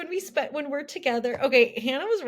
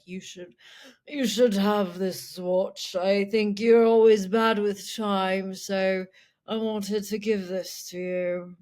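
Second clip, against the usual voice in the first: slow British drawl; 3 dB louder than usual. Retold or imitated. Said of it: "He's like".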